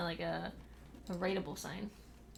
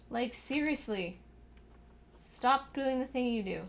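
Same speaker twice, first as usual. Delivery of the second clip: louder, slowed, fed-up scolding; exasperated scold; 3 semitones higher, 4 dB louder than usual. Real, not acted. Scolding the cat, loud and fed up. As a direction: lay into it, fed up.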